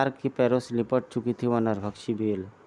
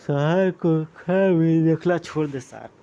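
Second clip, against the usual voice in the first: loud, raised-pitch battle yell; shouted threat; 6 semitones higher, 6 dB louder than usual. Acted. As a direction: yell it at your enemy. Enemy yells a threat at Shark.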